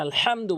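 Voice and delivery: আলহামদু with a constricted mid-throat h; correct throat h. Shown as a demonstration. Teacher showing the required Fatiha word, tight h in আলহামদু. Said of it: "বলতে হবে".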